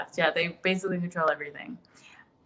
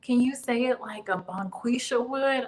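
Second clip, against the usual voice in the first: mocking the director; 5 semitones higher than usual. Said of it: "I bet he wanted to say".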